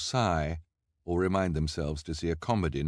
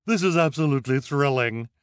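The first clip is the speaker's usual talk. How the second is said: high, loud, thrilled cry; excited exclamation; 7 semitones higher, 7 dB louder than usual. A narrator's reading. Reporter thrilled by the carnival spectacle, high excited exclamation. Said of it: "exclaimed the reporter".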